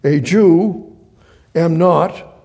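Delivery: "a Jew", "am not" in loud separate chunks; "a Jew" and "am not" punched, each held apart; broken-up sentence. Shown as a demonstration. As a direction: set off "a Jew" and "am not" firmly. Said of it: "it would go like this".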